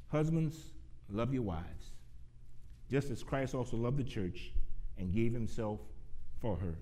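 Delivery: measured pulpit reading with pauses between phrases; scripture reading. Real, not acted. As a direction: read the verse out to a congregation, easing down at the close. Reads Bible verses aloud to congregation.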